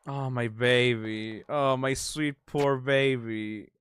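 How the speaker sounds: gentle sympathetic coo; tender cooing. Real, not acted. Comforting a sad character.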